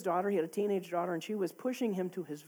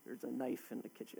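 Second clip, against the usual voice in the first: lower, much softer, eerie inner voice; dark inner thought; 9 semitones lower, 13 dB quieter than usual. Retold or imitated. Lying in bed recalling a dark temptation, hushed and low. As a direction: murmur it like an intrusive thought.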